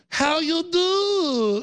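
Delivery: very high, drawn-out mock Hispanic accent; stretched, sing-song fake Hispanic accent; condescending fake accent. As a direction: parody a liberal putting on a Hispanic accent for a waiter. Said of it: "put on a weird accent for some group".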